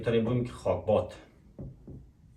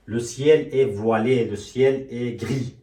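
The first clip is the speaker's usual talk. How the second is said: very slow, clear French; slow dictation; 6 dB louder, much slower than usual. Shown as a demonstration. Teacher dictating French weather phrases slowly. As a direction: dictate each word slowly. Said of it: "به طریقه فعل دو ضمیره".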